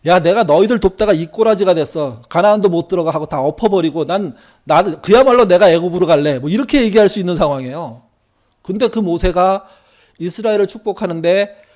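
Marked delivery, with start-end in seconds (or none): 0.0-6.4 voicing Moses, louder and heated at the end; an exasperated Moses talking back, building; Moses fed up. Moses talks back to God, hot and fed up. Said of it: "열받아가지고 하나님께 대들고".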